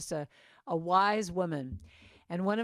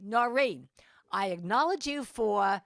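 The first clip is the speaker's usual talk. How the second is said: Noreen; 2 semitones higher, 6 dB louder than usual. Retold or imitated.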